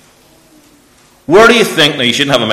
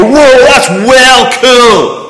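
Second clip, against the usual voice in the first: put-on little boy voice; 13 semitones higher, 7 dB louder, much slower than usual.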